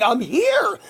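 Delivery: high-pitched mock yell; retold scream. Host re-enacts answering the president, high mock scream. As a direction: re-enact shouting back to be found. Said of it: "And I'm screaming".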